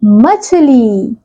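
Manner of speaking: मछली said very slowly, every syllable separate; slow clear word demo. Shown as a demonstration. Teacher revealing the finished word to children, slowly. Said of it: "तो शब्द क्या बन गया".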